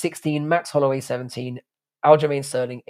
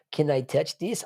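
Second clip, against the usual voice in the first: lightly voiced innocent ask, ending on a rise; a hint of a coy, innocent voice; silly put-on voice; 4 dB quieter than usual. Mimicking Merab for chat, in a light put-on voice. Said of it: "I don't know why I said it in that voice".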